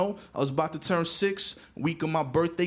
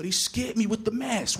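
put-on higher, put-upon boy's protest; lightly voiced child pleading his case; complaining kid; 5 semitones higher than usual. Boy explains the mask to Pops, higher and aggrieved.

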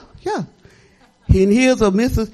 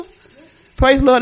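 drawn-out praise; 4 semitones higher, much slower than usual. Real, not acted. Testifying in church.

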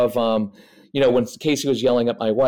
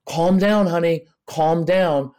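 mild mock yell, pitched up; 4 semitones higher, slower than usual. Parent telling an upset child to calm down, mildly mock-yelled. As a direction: imitate a worked-up parent, raised pitch without real volume. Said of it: "someone who's yelling at them".

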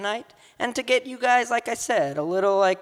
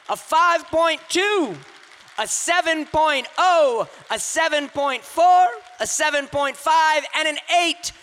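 announcing scores; 6 semitones higher than usual. Real, not acted. Host reading judges' scores aloud, upbeat announcer call. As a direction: call each score out to the crowd.

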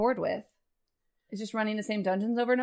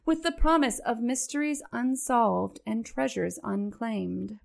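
slow, grand storybook narration; epic fantasy narrator; slower than usual. Shown as a demonstration. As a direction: read it like a fantasy game trailer. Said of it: "why don't you go ahead and read us".

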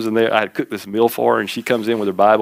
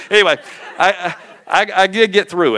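laughing; 10 semitones higher than usual. Real, not acted. Laughing after the story.

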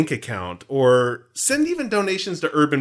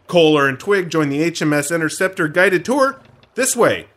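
put-on booming old melodrama narrator; 4 dB louder than usual. Mock guided tour spiel.

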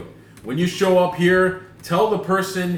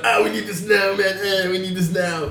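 nineties surfer dude; 3 semitones higher than usual. Retold or imitated. Worker running back to the cash, mock surfer-dude urgency. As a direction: imitate a dopey surfer dude. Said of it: "He's like a nineties surfer dude or something".

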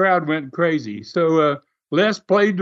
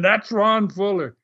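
mild mock yell, pitched up; high, held-back mock scream; retold scream; 5 semitones higher than usual. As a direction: imitate someone protesting over and over. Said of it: "they just kept screaming".

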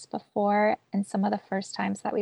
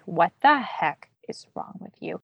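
harsh self-criticism. Retold or imitated. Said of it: "being like".

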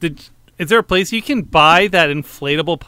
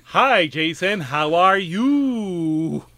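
ventriloquist voice; much slower than usual. Pretend. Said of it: "really bad ventriloquist act".

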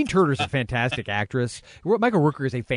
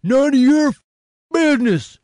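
hammed-up villain Travers; 11 dB louder than usual. Podcast host reading Travers' line, hammed-up villain bark. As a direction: overplay a henchman's outraged demand. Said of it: "I'll be Travers".

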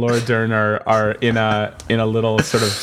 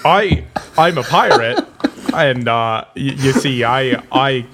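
Jeff Goldblum as pirate; 3 semitones higher than usual. Retold or imitated. Asked for his best Jeff Goldblum, halting pirate impression. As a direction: stumble through it like a bad actor pirate. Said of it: "This is Jeff Goldblum pretending to be a pirate".

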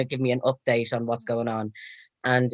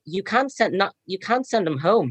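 higher-pitched, insistent objection; retold protest; 6 semitones higher than usual. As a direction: lightly re-enact an urgent plea. Retelling protest against sending him home.

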